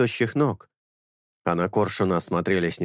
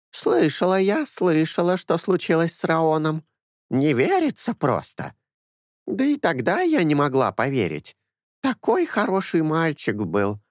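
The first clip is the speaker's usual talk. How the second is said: put-on higher, chatty old woman's voice; a fussy old nanny doting on her boys; higher-pitched gossipy granny; 7 semitones higher than usual. A narrator's reading. Old woman Anessa speaks.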